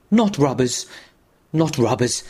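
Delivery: breathless insistent denial; gasped in terror. Acted. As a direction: gasp it, still terrified. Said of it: "gasped the terrified man".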